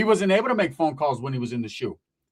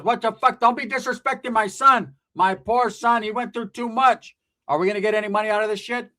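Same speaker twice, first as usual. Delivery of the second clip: higher-pitched scolding aunt, hammed up; mock indignant mother; 5 semitones higher than usual. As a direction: play an outraged mom defending her son. Imitates indignant aunt defending her son.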